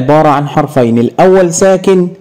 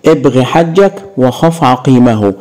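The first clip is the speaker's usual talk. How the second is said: slow recitation. Shown as a demonstration. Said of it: "خلي التلميذ يحفظ هذه الجملة".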